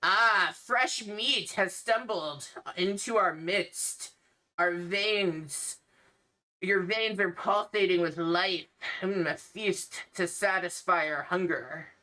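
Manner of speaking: lightly voiced hungry vampire. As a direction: savour the words like a hint of a vampire. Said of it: "you hear coming from behind the statue".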